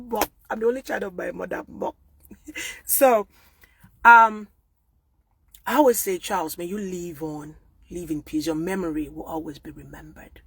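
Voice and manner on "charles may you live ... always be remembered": soft, hushed goodbye to the dead; tender farewell. Real, not acted. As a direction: say it softly as a farewell. Tender farewell to late uncle.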